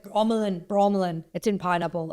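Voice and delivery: lightly imitated Scottish accent; put-on Scottish accent, Australian underneath. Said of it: "this is my Scottish accent".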